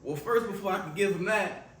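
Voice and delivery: playing Marvin. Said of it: "Why are we so country?".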